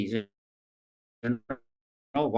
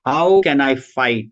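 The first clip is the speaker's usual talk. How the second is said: slow, louder mock wail of despair; crying tone; 7 dB louder, slower than usual. Teacher voicing Arjuna's crying plea, a mild mock wail. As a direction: plead as if crying, drawn out. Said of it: "uh, crying tone".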